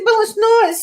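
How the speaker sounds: retold retort. Retold retort to son about hair.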